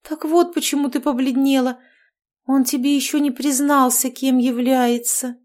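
bubbly overbearing mother-in-law chattering; cheerful witch. Acted. Marianna realising. (ведьма щебечет слегка выше обычного)

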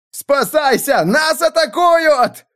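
high, slow terrified shout; panicked yelling. A narrator's reading. Wagon drivers panicking under fire, high scared yell. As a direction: scream for everyone to run. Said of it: "Повсюду орали".

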